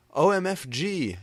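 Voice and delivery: high loud outraged yell. A narrator's reading. James yelling at the wrong note, high loud yell. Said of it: "yielded James".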